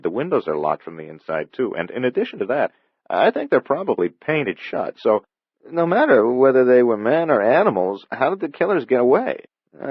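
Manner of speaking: lightly voiced detective, pressing his point; a hint of an urgent cop laying out the puzzle; lightly voiced cop, rising urgency; Mulgrew insisting. Mulgrew explains locked room.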